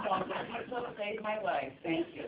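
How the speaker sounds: high, laughing thanks; laughing while talking. Real, not acted. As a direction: speak through a laugh. Speaking through laughter.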